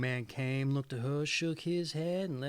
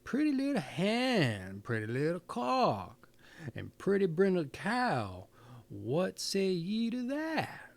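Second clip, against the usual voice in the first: lightly voiced old man coaxing his animals; old man's rhyme; 5 semitones higher than usual.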